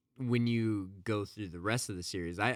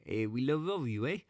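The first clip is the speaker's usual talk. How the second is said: higher, hammed-up Canadian "eh, we love all of you, eh"; mock Canadian accent; 6 semitones higher, 4 dB louder, faster than usual. Host echoes the greeting in a bad Canadian accent. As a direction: overdo the Canadian "eh". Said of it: "This is probably the worst".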